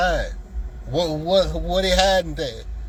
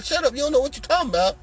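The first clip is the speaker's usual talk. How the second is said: fast shut up; 9 semitones higher, faster than usual. Retold or imitated. Phenom telling off a critic.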